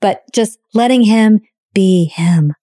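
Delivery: ordinary talk, nothing marked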